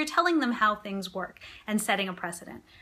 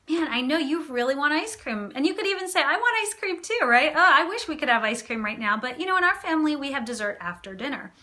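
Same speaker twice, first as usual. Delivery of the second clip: kind and firm; 5 semitones higher than usual. Shown as a demonstration. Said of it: "what you can do is be both empathetic and firm at the same time".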